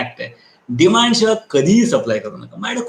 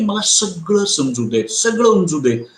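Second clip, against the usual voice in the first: मला सगळं समजू देत said slowly, word by word; slow and measured; 3 semitones higher, slower than usual. Shown as a demonstration. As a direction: take your time, calm and deliberate. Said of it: "फक्त आधी सांगा की". (शांतपणे, हळू हळू)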